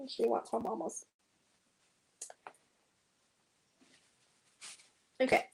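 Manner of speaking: talking through hiccups; hiccuping between words. Real, not acted. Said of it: "I've got the hiccups".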